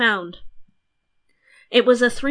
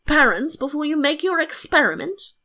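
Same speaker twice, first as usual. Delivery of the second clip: king's line, higher and lilting; 7 semitones higher than usual. A narrator's reading. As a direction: raise the pitch for a king's question.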